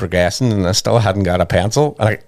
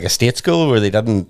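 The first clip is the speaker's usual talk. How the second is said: normal talking voice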